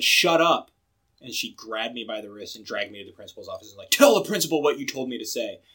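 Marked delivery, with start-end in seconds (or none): 0.0-0.7 retold outburst, raised pitch and volume; punchy, higher-pitched comeback; loud retort. Retells repeating it openly to teacher. 3.9-5.6 louder retold demand; imitated angry teacher. Voices angry teacher dragging him along.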